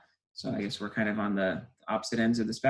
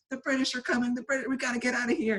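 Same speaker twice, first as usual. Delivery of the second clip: much higher, alarmed mock warning; imitating a panicked girl; 13 semitones higher than usual. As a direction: play the hypnotized girl crying the alarm. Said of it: "running around to strangers going".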